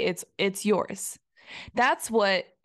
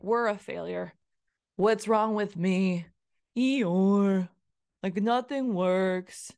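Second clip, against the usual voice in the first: mopey inner voice; slower than usual. Retold or imitated. Self-critical inner voice quoted.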